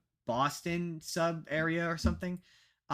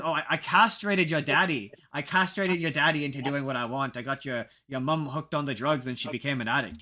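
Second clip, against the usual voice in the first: bad Irish accent. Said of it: "That's a bad Irish accent".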